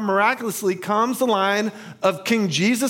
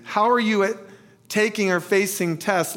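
more flowing question with few pauses; asked differently. Shown as a demonstration. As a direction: run the question through to its end. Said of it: "ask this a little differently".

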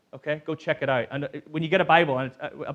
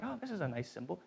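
mock naive; 3 semitones higher, 12 dB quieter, much faster than usual. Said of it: "This was like".

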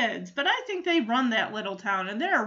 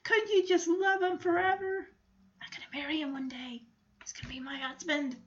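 put-on high, dreamy, swooning girl voice, slowing then breathless and quick; lovestruck Sally; 8 semitones higher than usual. Sally swooning over Linus, high and dreamy. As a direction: gush like a smitten little girl. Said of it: "hearts all above Sally's head".

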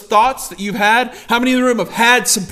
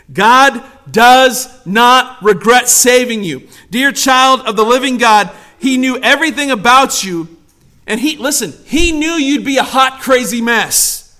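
emphatic preaching; 2 semitones higher, 5 dB louder than usual. Real, not acted.

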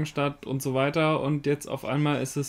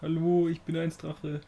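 dragon voice. Pretend. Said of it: "ich hasse diese Sprache übrigens".

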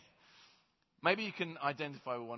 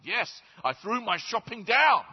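high, loud boast; proud declaration; 7 semitones higher, 9 dB louder than usual. Acted. The man boasts to Peter, loud and high. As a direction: announce it proudly.

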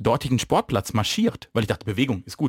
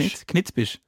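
Badisch dialect; 5 semitones higher, slower than usual. Shown as a demonstration. Host confirming the dialect word, in Badisch. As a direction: savour the phrase in Badisch. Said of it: "was sowas auf Badisch heißt".

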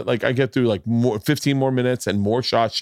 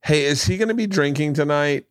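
lightly voiced girl, pitched up; higher-pitched curious question, lightly mimicked; girl in line; 5 semitones higher than usual. Voicing a girl overheard in line.

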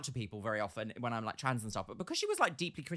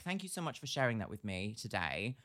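gentle comfort; 5 semitones lower than usual. Retold or imitated. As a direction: soothe a grieving customer. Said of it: "I was like".

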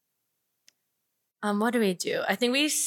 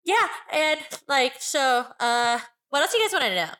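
put-on five-year-old voice; 2 semitones higher than usual. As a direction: talk like a small kid. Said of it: "'Cause she sounds like she's five".

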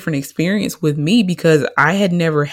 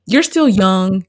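quoting the doctor; 3 semitones higher, 3 dB louder than usual. Retold or imitated. Woman retelling her doctor's careful news about having kids. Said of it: "the second time she told me".

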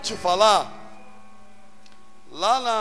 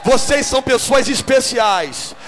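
emphatic repetition; 4 dB louder than usual. Real, not acted. Preacher repeats the blessing louder to the church. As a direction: hammer each word home. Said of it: "vou repetir".

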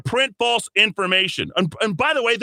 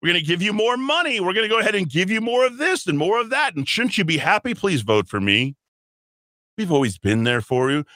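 mocking politicians. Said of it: "They're gonna say".

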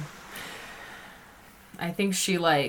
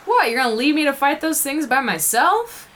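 Willow voice; 5 semitones higher, 4 dB louder than usual. Acted. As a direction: plead with an old friend, lifted pitch. Plays Willow pleading with Temple.

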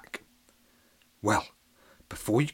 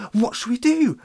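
high, louder question falling at the end; fretful villagers; 12 semitones higher, 7 dB louder than usual. Acted. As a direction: plead it again, dropping on do. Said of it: "they exclaimed".

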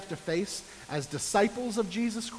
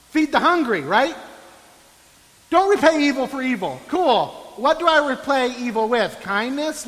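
scoffing skeptic; 4 semitones higher, 4 dB louder than usual. Retold or imitated. Scoffing at Jesus' teachings.

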